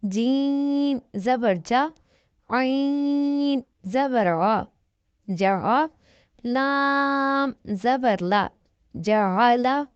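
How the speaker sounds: slow, drawn-out syllable spelling; teacher reading the Qaida aloud slowly; spelling drill. Shown as a demonstration. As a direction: sound out each letter slowly for a child. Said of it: "جیسے میں ہجے کر رہی ہوں".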